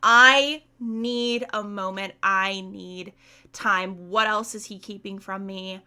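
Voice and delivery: deliberate, emphatic demand with mild anger; understated mock fury, firm and measured; acted pissed off. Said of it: "Feyre is obviously extremely pissed off".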